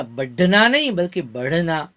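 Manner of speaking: बढ़ना with a breathy flap; flapped ढ़. Shown as a demonstration. Teacher contrasting ढ and ढ़ in बढ़ना. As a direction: flick the tongue in बढ़ना. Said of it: "ढ के नीचे बिंदी लगाई".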